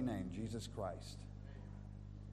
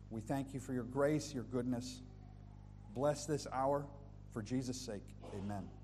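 prayer. Acted. Leads a prayer.

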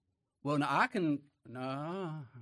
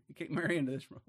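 laughing; faster than usual. Real, not acted.

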